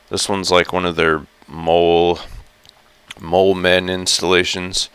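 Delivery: husky just-woke-up voice; raspy morning voice, fresh out of bed. Real, not acted. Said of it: "this is my, like, morning voice".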